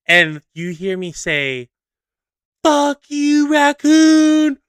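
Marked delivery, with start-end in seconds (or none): 2.6-4.6 high, loud mock cursing; hammed-up furious holler; retold angry scream. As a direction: yell it up at the culprit, words stretched. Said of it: "screaming my ass off".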